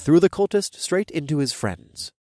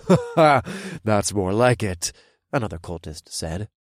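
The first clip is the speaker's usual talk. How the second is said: gleeful villain; 3 dB louder than usual. Acted.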